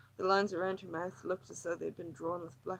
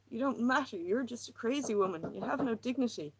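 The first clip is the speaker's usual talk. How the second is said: higher, tense, pleading woman; distressed woman; 4 semitones higher, 3 dB louder than usual. Acted. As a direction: pour out her misery, near breaking. Lily's agitated monologue.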